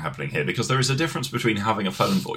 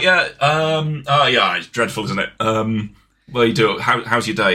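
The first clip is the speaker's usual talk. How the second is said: casual meeting small talk; 3 dB louder, slower than usual. Retold or imitated. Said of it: "I'm like".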